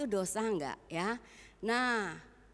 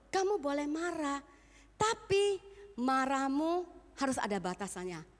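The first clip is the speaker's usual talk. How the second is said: forceful preaching; 6 semitones higher than usual. Acted. Paul's advice voiced by preacher.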